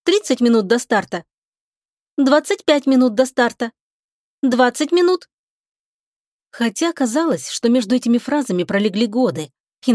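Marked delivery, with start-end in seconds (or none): 0.0-5.3 higher voice, wistfully announcing the time; melancholy countdown. A narrator's reading. Ship's voice Lika counts minutes to launch, mildly melancholy. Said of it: "Лика меланхолично отсчитывала время до старта".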